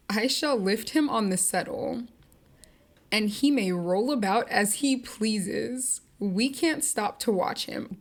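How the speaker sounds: cold dismissive Nellie. Retold or imitated. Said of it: "Why would you say that like that?".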